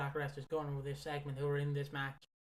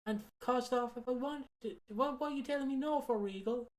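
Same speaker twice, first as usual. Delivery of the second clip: mock pleading Tony; 5 semitones higher than usual. Voicing Tony Khan pleading.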